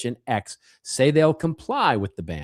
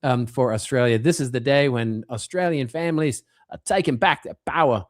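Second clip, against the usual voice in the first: put-on Australian accent; 3 semitones higher than usual. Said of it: "I'm gonna try my Australian accent there".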